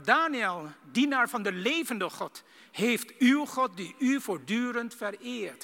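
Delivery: mild sorrowful plea, slowed; sad voice. Acted. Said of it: "met de droeve stem".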